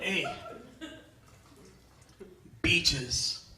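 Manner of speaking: cholo voice. Retold or imitated. Cholo calls comedian out.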